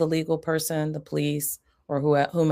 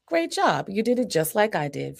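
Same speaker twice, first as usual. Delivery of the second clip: much higher excited praise; big praise; 5 semitones higher than usual. Shown as a demonstration. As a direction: celebrate the child. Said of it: "Pick up the papers like me".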